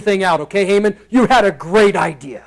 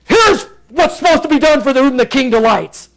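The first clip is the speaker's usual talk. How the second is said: grudging Haman; 6 semitones higher than usual. Retold or imitated. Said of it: "he goes".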